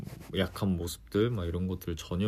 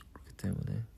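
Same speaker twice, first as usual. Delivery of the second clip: whisper; 5 dB quieter than usual. Real, not acted. Hushed lead-in.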